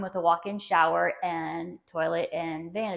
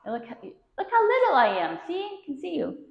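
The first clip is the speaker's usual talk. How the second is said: gushing real estate agent; 9 semitones higher than usual. Real, not acted. Agent marvels at room size.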